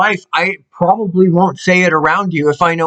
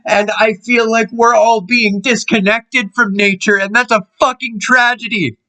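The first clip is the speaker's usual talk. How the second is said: getting emotional; 3 semitones higher than usual. Real, not acted. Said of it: "apologize for getting emotional".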